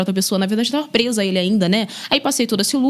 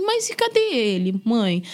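put-on child's question; slower than usual. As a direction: pipe up like a little boy missing someone. Child asking about absent boyfriend.

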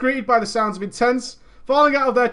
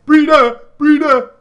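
high, loud joyful shout; gleefully claiming the word; proud shout; 6 semitones higher, 10 dB louder than usual. Real, not acted. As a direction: shout it with pride.

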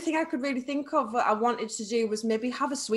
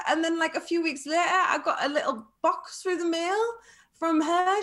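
laughing; 6 semitones higher than usual. Real, not acted. Telling about a surprise gift.

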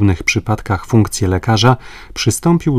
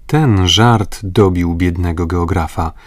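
ordinary delivery, nothing marked

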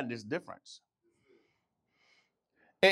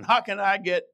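preacher's version; 3 semitones higher than usual. Acted. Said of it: "this is the Jemot's version".

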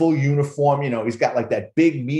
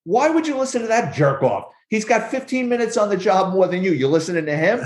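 scolding captain; 5 semitones higher than usual. Retold or imitated. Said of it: "He goes".

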